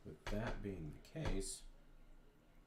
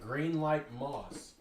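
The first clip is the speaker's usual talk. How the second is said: much higher, louder, stretched slowly; sing-song; 7 semitones higher, 12 dB louder, much slower than usual. Real, not acted. Painter calling out the color she needs, sing-song. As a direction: draw it out in a high, loud sing-song.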